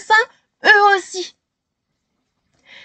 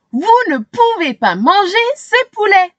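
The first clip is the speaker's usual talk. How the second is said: much higher, desperate yell; Shéna yelling; 7 semitones higher than usual. A narrator's reading. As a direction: scream at the crowd to stop. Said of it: "hurle Shéna".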